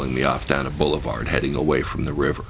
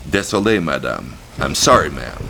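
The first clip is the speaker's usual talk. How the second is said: theatrical apology. Retold or imitated. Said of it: "I bowed deeply and theatrically".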